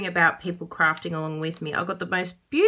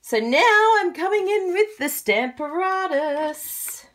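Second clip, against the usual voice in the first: high, slow, loud playful announcement; grand reveal; 11 semitones higher, 5 dB louder, slower than usual. Real, not acted. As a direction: draw it out like a big product reveal. Playfully announces the featured tool.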